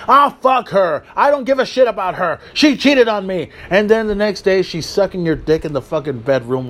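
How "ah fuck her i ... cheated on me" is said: bitter ex. Retold or imitated. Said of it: "That's like saying".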